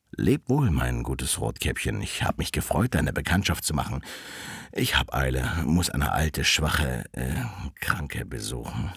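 lightly voiced wolf, mostly low; sly wolf. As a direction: let the voice sink for the wolf's farewell.

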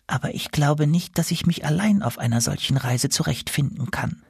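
a shy goose asking for help; gander voice. Acted.

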